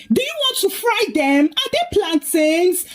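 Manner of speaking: high-pitched, understated narrated shout; indignant shout. A narrator's reading. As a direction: raise the pitch in indignant protest. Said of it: "But Liz shouted".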